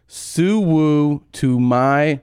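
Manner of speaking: slow drawn-out war cry. Retold or imitated. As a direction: stretch it out like a gang call. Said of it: "Suwoo is a war cry".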